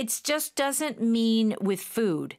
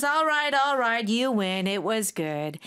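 mildly acted good loser; conceding defeat. Tom admits he lost to his friend, conceding defeat. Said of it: "The tone here is that Tom is like, he lost the game".

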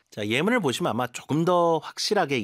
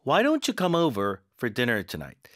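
very slow, stress on "don't"; slow model sentence; much slower than usual. Shown as a demonstration. Teacher modelling a dinner invitation, slow. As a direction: lay out the invitation slowly. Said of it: "저녁 초대할 때 정말 많이 쓰는 문장".

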